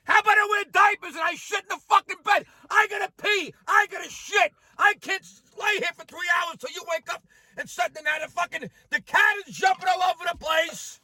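exasperated rant. Real, not acted. Ranting about wife and cat.

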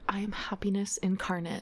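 hushed, whispery mock-blissful yoga girl. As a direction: imitate a serene yoga girl in a soft whisper. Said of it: "little blonde girls that do yoga that are like".

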